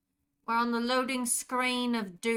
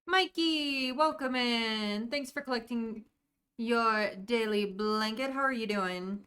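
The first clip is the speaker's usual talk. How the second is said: light British accent, greeting a viewer; a gentle, lightly voiced British accent. Shown as a demonstration. Streamer greets viewer Mikey in a light British accent. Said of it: "a sample of my British accent".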